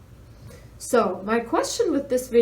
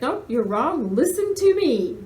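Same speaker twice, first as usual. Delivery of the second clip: mock bossy scolding; 4 semitones higher, 4 dB louder than usual. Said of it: "is like".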